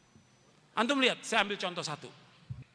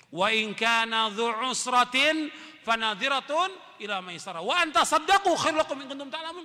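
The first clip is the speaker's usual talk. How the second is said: Quran recitation. Acted. Preacher quoting Al-Baqarah to the congregation, chanted. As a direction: intone the verse like a recitation.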